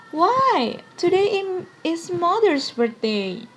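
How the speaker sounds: a hint of a high, eager girl; young girl's voice.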